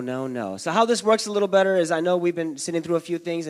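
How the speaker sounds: normal talking voice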